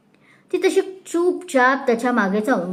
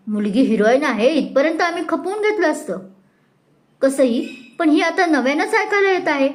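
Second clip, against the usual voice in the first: raised, indignant refusal; indignant outburst; 4 semitones higher than usual. Acted. Mrs Nimbalkar to Mrs Mane, raised and indignant. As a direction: scorn the drunken bride. Guest angrily rejects the match.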